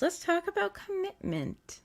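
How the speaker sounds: lifted emphasis. Shown as a demonstration. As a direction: float "Let's talk about commitment" up high and slow, gently. Repeats key phrase for emphasis.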